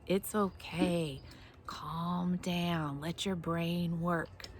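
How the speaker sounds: slow, soft soothing words; calming. Shown as a demonstration. Teacher soothes the children after the tapping, slow and soft. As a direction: settle them down gently and slowly.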